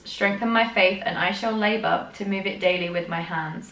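poem read with solemn earnest lilt; earnest recital of a devotional poem; reading a poem aloud. Acted. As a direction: read it like a hymn verse. Reads the poem on.

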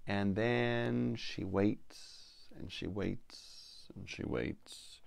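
drawn-out waiting. A narrator's reading. Narrator drawing out the wait.

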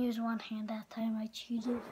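guilty whispered confession; whispering. Real, not acted. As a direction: whisper it like admitting a secret.

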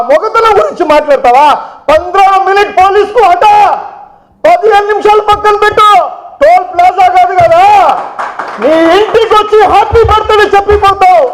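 high-pitched, combative taunt; heated dare. Real, not acted. Daring rival to face them without police.

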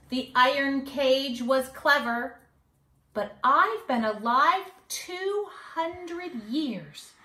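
put-on sing-song rhyme for kids; mischievous leprechaun. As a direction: read it like a cheeky little leprechaun bragging. Leprechaun boasts.

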